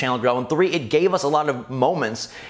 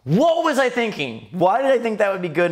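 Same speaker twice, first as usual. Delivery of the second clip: embarrassed disbelief; 6 semitones higher than usual. Real, not acted. Host cringing at his old voice, incredulous.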